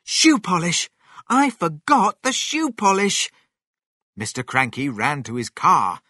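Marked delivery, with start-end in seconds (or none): 0.0-3.3 loud, high exclamation; sudden realisation. A narrator's reading. George remembers the missing ingredient, exclaiming loudly. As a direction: burst out as the forgotten thing comes back.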